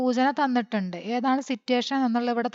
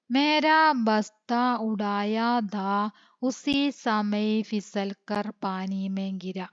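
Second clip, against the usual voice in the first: very slow, word by word, for writing down; slow dictation; much slower than usual. Shown as a demonstration. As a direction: read it so they can follow the spelling. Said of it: "ഒന്ന് വായിക്കുന്നത് കേട്ടിട്ട് മനസ്സിലാക്കുക". (വളരെ പതുക്കെ dictation വായന)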